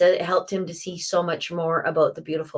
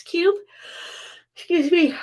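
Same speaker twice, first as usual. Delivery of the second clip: surprised catch; 10 semitones higher than usual. Real, not acted. Startled by own misstatement.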